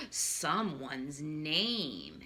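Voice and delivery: put-on stage a little surprise for the kids; slowed, hushed wonder; mock gasp reveal. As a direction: gasp then slowly draw out the words.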